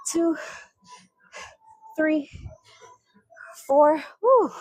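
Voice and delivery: counting through strain, pushing hard; straining effort. Real, not acted. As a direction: push the count out under heavy load. Straining on heavy squat reps.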